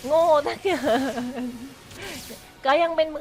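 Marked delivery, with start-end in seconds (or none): 1.5-2.6 quiet trailing chuckle; soft laugh. Real, not acted. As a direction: laugh softly at your own blunder. Laughs at own clumsy play.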